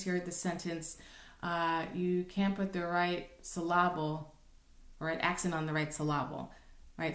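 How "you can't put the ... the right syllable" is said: "syllable" as suh-LAB-ul, stress on the middle; mispronounced syllable. Shown as a demonstration. Teacher quoting a familiar sentence, "syllable" mis-stressed as suh-LAH-bul. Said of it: "but it's not correctly pronounced".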